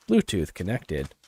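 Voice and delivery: lightly voiced automated announcement; device prompt. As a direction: speak like a Bluetooth speaker. Device voice impression continues.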